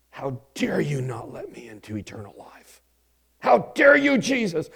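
mock infuriated. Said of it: "they're gonna be infuriated".

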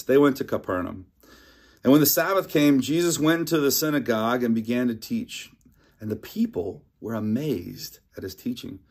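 measured, steady Bible reading voice; scripture reading. Acted. Pastor reads scripture to the church, measured reading. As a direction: read the passage to the congregation.

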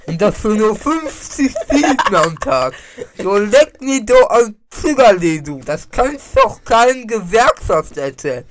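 slow, high, loud cartoonish voice; Jason character voice. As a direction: ham up a gruff dock worker. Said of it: "Jason-Gesicht ungefähr so geht".

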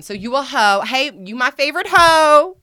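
playful loud tease; mock affectionate taunt. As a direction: sing it out like a pet name. Teasing men as hoes.

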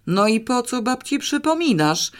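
voiced, high-pitched scolding in place of a whisper; angry whisper. A narrator's reading. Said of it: "gniewnym szeptem". (gniewna przygana)

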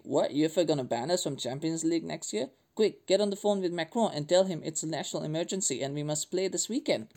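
hammy French accent, lightly put on; deliberately clumsy French accent, quick and jokey; bad French accent. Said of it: "That's a really bad French accent".

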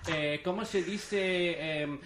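lisping, hammed-up Castilian Spanish; Castilian Spanish accent. Shown as a demonstration. Showing friends his accent bit, mock Castilian Spanish. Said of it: "Castilian Spanish".

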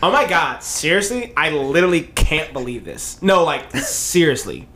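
mock Valley girl, ending in laughter; Valley girl accent. Friend restarts the whole script, Valley girl accent. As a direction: read it as a Valley girl, trying not to laugh. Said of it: "basic white girl, white Valley girl".

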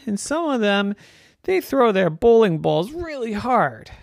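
high, hesitant small voice near tears; a touch of fright, stammering; timid baby pin, lightly frightened; mildly scared little pin. Acted. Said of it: "She was almost crying".

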